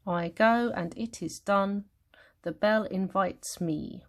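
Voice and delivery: slow, measured verse line; counting syllables. Shown as a demonstration. Teacher checking the line for syllables, slow measured reading. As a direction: read it out beat by beat. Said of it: "let's count the syllables".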